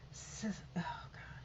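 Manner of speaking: breathless shocked whisper, very soft; a real hushed gasp at the numbers; whispered oh God. Real, not acted. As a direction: let it slip out under your breath in disbelief. Stunned at the death count.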